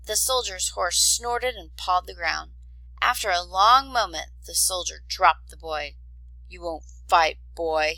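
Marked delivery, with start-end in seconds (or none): 6.5-8.0 sneering. Acted. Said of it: "he sneered".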